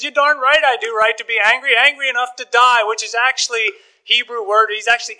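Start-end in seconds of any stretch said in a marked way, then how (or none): 0.0-2.8 hammed-up indignant prophet snapping back; mildly acted angry reply; ticked-off retort. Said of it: "This guy is ticked off".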